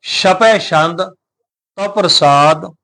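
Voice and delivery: ਛਪੈ ਛੰਦ drawn out slowly; slow recitation. Shown as a demonstration. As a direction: read the title slowly and clearly. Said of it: "ਉਚਾਰਨ ਕਰਨਾ ਹੈ ਛਪੈ ਛੰਦ".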